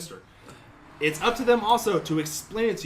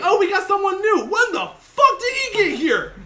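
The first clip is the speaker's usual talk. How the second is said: high, louder, laughing imitation; mock friend's voice; 11 semitones higher, 6 dB louder than usual. Retelling the friend's reply in church: high, laughing mock voice. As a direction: play the friend whispering back in church. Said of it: "And she's like".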